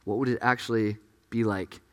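hushed, low musing that fades to a near whisper; quiet, tempted inner thought with pauses; tempted wondering. Acted. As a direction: let the doubt creep in softly, trailing into breath. The woman's doubt creeping in.

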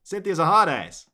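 put-upon working-stiff dragon; grumbling guard dragon. Acted. Dragon complains about boss Cynthia, put-upon.

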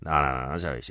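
ordinary talk, nothing marked

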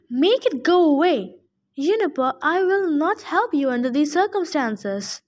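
put-on fussy old satyr voice, indignant; grumpy old satyr. Old satyr scolding Percy about the hellhound, indignant. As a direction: bluster like a cranky old goat-man.

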